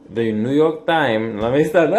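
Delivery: a put-on Jamaican lilt, slow and high; fake Jamaican accent. Vlogger jokingly opens his news segment in mock Jamaican accent. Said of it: "a little Jamaican or something in that".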